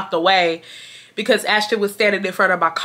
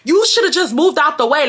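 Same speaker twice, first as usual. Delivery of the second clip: blunt and cold; 7 semitones higher than usual. Retold or imitated. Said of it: "I'm telling her straight up".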